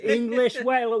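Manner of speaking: put-on a pirate's French accent. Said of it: "we only hear French accent".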